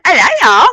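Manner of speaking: "y'all" swung up and down; decibel swooping. Retold or imitated. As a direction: swoop through "love y'all". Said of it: "hear your fucking decibel went".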